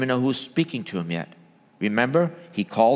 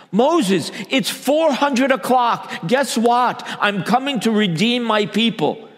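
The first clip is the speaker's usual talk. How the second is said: God calling out; 7 semitones higher, slower than usual. Acted. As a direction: call out to Moses like God announcing the hour. Preacher voicing God calling Moses.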